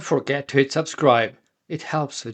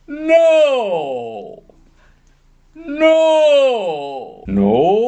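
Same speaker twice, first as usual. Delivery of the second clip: sighing slide attempt; 12 semitones higher, 6 dB louder, much slower than usual. Shown as a demonstration. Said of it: "I do it now".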